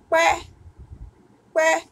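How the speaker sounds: pé with a high, loud tone; modelled word. Shown as a demonstration. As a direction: call out pé high and clear. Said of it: "agora é".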